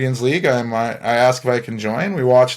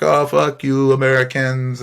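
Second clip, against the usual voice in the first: mock insult slipping into a French accent; accidental French accent. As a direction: imitate hecklers, drifting into French. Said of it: "why I went French there".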